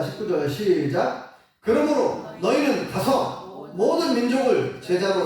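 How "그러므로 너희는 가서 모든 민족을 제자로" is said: scripture reading. Shown as a demonstration. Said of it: "십구 절 읽어보겠습니다".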